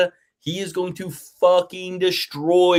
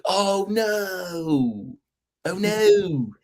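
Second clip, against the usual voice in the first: mock panic; 6 semitones higher, 4 dB quieter, much slower than usual. Mock panic over missing medicals.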